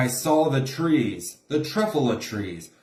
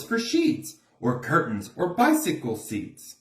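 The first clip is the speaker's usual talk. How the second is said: defensive salesman; 3 semitones higher than usual. Acted. Once-ler defends his thneed to Lorax.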